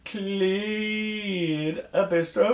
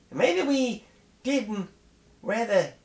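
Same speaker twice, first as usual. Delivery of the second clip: mock shout; 7 semitones higher than usual. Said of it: "he shout".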